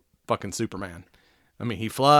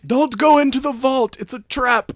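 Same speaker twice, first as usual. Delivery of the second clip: higher, hammed-up Russian accent as Alexei; a cheesy, proud Russian hero, pitched up; doing a deliberately bad Russian accent for Red Guardian; 12 semitones higher, 6 dB louder than usual. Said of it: "I can do bad Russian voice".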